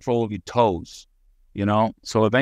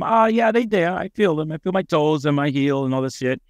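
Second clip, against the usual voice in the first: cheerful reply; 5 semitones higher than usual. Retold or imitated. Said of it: "I told him".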